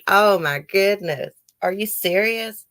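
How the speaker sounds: high, drawn-out "oh my goodness"; shocked disbelief. Real, not acted. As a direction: react in real disbelief. Shocked at renters' damage story.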